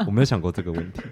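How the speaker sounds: normal talking voice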